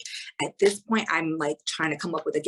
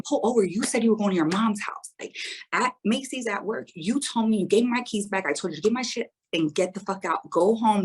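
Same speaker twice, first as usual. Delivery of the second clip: angry retort; 4 semitones higher than usual. Retold or imitated. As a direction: throw his words back at him, fed up. Arguing with her ex on highway.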